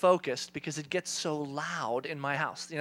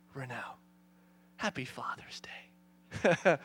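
hushed, very slow, near whisper; God as father; 6 semitones lower, 5 dB quieter, much slower than usual. Retold or imitated. God looking down at the harried dad, hushed. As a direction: deliver it softly and deliberately, like a knowing father. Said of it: "God, just like the Father that he is".

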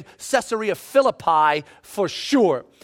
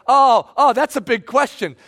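a sudden louder burst of excitement; excited; 4 dB louder than usual. Retold or imitated. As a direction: catch your breath at the big question. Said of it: "you start getting excited and like".

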